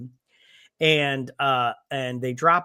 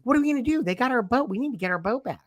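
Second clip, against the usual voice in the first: mock panic; 8 semitones higher, faster than usual. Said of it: "she's like".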